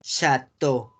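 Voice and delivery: "Chateau" in two even syllables, sha-TO; French pronunciation. Shown as a demonstration. Teacher showing the vowel rule, "Chateau" as sha-TO. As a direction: end "Chateau" on a single O. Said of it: "hacen una O".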